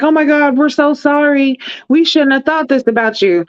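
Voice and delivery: put-on pitying voice; mock sympathy. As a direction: imitate a gushing, oh-so-sorry crowd. Voices everybody's gushing sympathy.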